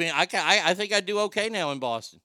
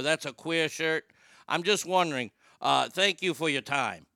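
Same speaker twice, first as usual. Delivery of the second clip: put-on Boston accent prank caller. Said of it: "my Boston accent is getting that good".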